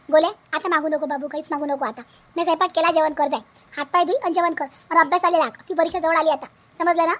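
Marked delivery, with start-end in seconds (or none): 0.1-2.0 gentle mother. Acted. Mother gently tells her son to stop asking. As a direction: soothe the boy, don't ask again.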